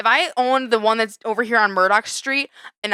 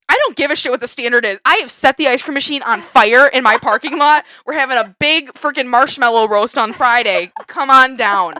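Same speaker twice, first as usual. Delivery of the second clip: louder, defiant rant; real yelling; 5 dB louder than usual. Real, not acted. Host ranting at the ice cream machine, yelling. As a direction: shout it like a rallying host. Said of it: "me yelling in the microphone".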